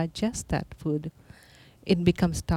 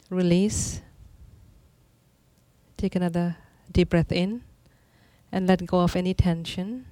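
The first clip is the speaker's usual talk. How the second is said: calm meditative tone. Acted. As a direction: guide each breath gently, pausing. Leads a breathing exercise.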